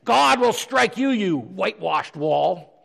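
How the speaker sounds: loud, drawn-out denunciation, dropping at the end; acted sharp outburst, each word leaned on; sharp feisty rebuke. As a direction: pronounce judgment on an opponent, slowly and forcefully. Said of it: "he spoke sharply".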